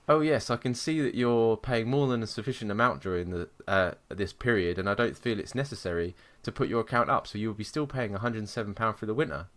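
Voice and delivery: measured, proper English phone manner; calm, very English. Retold or imitated. Call-centre agent explaining the account to angry customer, calm and English. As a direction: mildly imitate a composed, formal agent. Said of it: "in a very calm and very English way".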